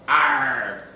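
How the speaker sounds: lightly voiced pirate "Arr"; a long pirate "Arr"; playful mock pirate cry; pirate growl.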